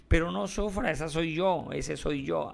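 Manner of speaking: lightly whiny mock protest; mock dismissive retort. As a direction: imitate someone waving off a warning. Acted retort to someone's warning.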